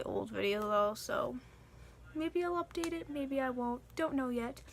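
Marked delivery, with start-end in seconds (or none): none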